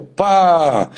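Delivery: "pá" stretched slowly as a single syllable; "pá" drawn out, child decoding; child sounding out. Retold or imitated. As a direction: imitate a new reader holding "pá". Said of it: "Aí ela leu".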